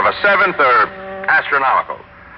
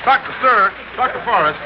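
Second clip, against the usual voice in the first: raised, higher calls across a crowd; calling out; 5 semitones higher than usual. Acted. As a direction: call out to catch the doctor's attention. Reporter calling to doctor in crowd.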